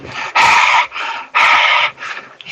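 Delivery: long, heavy breath into the mic; exaggerated heavy breathing. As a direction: breathe audibly, heavily into the microphone. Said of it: "I'm breathing heavy".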